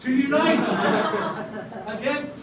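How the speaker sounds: very slow radio proclamation. Acted. Frog urging the city to unite, slow proclamation. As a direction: draw it out like a rallying broadcast. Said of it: "You're the one with the radio voice".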